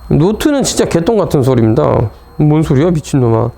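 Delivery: loud, irritated dismissal; irritated rant. Real, not acted. Teacher cursing a note's nonsense, loud irritated rant. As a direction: scoff loudly at utter nonsense. Teacher rants at what the note says.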